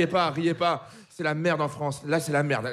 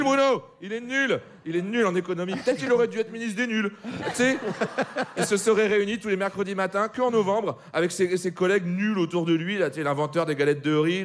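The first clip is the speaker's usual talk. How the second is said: ordinary delivery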